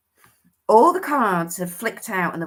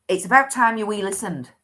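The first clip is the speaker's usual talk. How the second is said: put-on Scottish accent; 4 dB louder than usual. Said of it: "I can't do it in a Scottish accent".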